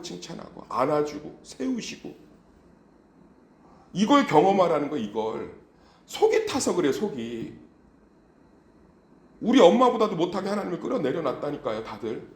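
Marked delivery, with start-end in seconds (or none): 3.9-12.3 high, loud, impassioned sermon voice; fervent preaching. Acted. Pastor rebuking the church for belittling God, impassioned. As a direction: preach it hard to the congregation.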